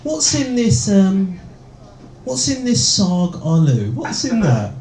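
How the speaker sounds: high, curious quizzing voice, lightly mocked; eager friend impression. Friends quizzing Romesh about the curry, high and eager. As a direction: play the keen mate who expects an expert. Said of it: "they say things to me like".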